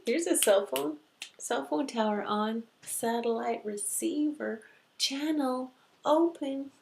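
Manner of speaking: high, loud eager operators, easing down; spirit world voices. Acted. Spirit world lining up a message, excited high call. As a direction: call out excitedly, then settle into instructions. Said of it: "because the spirit world goes".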